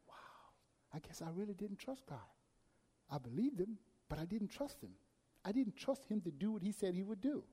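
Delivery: hushed whisper to himself; whispered realization. Retold or imitated. Preacher admitting to himself he didn't trust God, whispered. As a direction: whisper it like a confession.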